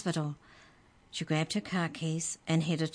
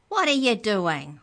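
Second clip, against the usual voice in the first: louder high squeaky scolding; squeaky shout; 6 semitones higher, 8 dB louder than usual. Acted. The dropped book elf shouts at Trent, squeaky. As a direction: yell at the clumsy boy. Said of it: "it shouted".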